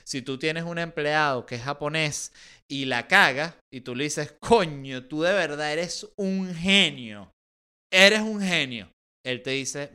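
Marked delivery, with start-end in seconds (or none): 4.4-7.3 slow, sarcastic fake compliment; mock praise. Boss to employee who messed up, sarcastic praise. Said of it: "te lo está diciendo con sarcasmo". 7.9-8.9 louder, higher exaggerated mock praise; sarcastic emphasis. Boss to employee who messed up, louder sarcastic praise. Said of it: "te lo está diciendo con sarcasmo".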